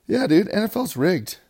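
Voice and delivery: loud NFL-is-rigged proclamation; hyped conspiracy. Real, not acted. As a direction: proclaim it like a revelation. Conspiracy declared loudly.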